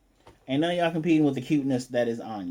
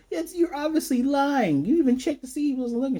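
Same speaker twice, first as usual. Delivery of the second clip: high, loud, fast protest; hammed-up indignant yelling; imitated outraged accusation; 12 semitones higher, 5 dB louder than usual. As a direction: act out a shrieked rebuttal.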